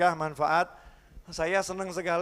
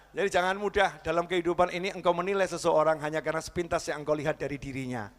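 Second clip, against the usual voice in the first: ordinary delivery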